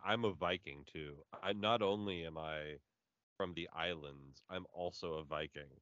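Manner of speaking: low, slow, ponderous imitation; mock Dave voice. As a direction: tease him with a deep, slow boast. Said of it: "Dave's like".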